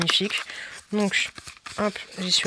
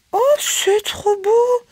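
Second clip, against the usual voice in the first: excited whisper; 7 dB louder, much slower than usual. Real, not acted. Excited unboxing a pretty product.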